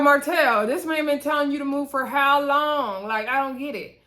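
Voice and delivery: exasperated disbelief. Retold or imitated. Vlogger imitating herself scolding a TV cast member, exasperated. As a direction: scold him like you can't believe it. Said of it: "I'm like".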